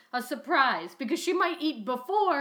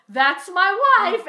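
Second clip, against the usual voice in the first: slow, punchy showman's catchphrase; Wayne Brady catchphrase; 4 semitones higher, 5 dB louder, slower than usual. Retold or imitated. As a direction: sell it like a game-show host. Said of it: "then he'd go".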